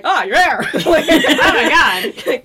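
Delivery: laughing, hammed-up astonishment, drawn out; mock surprise. Friend imagining their surprise at seeing angels, mock surprise. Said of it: "their surprise could be like".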